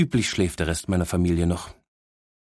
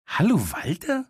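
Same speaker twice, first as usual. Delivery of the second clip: higher, rising disbelieving echo; incredulous; 12 semitones higher than usual. Acted. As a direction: repeat it as if it's absurd. Repeats title in disbelief. (ungläubig wiederholt, höher)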